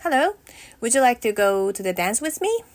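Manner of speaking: stiff robotic delivery. Pretend. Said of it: "too robotic".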